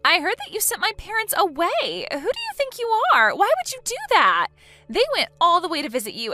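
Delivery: high, loud indignant demand; indignant outrage. Acted. Woman confronting her fiance's sister, indignant and loud.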